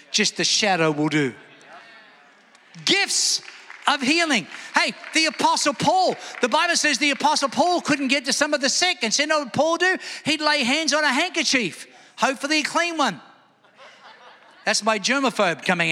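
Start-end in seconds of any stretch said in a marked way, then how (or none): 2.8-13.2 high-pitched, driving sermon delivery; raised, insistent preacher's voice; fired-up preaching. Acted. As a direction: preach it with rising urgency.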